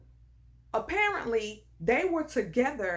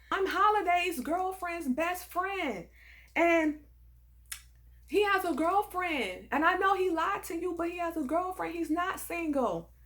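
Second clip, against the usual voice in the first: put-on Hispanic-accented caller; 7 semitones higher than usual. Best friend revealing his girlfriend by phone, high Hispanic accent. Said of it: "she cries out in a Hispanic accent".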